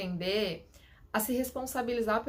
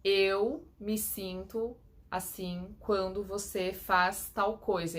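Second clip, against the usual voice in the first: calm I-statement; much slower than usual. Shown as a demonstration.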